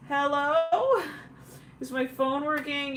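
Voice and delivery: high, drawn-out questioning hello; mock check for someone on the line; calling into phone. Caller unsure the phone is working, calling out questioningly.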